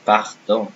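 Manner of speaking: "pardon" with a throaty R; "pardon" with R scraped at the back of the throat; French R. Shown as a demonstration. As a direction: model "pardon" in French, pahr-DON. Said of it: "Again, if I say".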